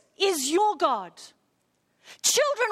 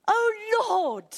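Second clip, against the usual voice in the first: emotional cry; 5 semitones higher than usual. Shown as a demonstration. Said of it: "It's an emotional crying to God".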